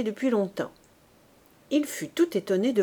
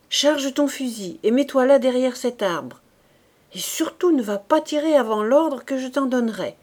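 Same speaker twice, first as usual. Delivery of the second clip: a terse veteran giving orders; gruff corporal; 4 semitones higher, 4 dB louder than usual. Acted. Corporal to raw recruit Fabrice, gruff orders. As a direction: hurry the green recruit.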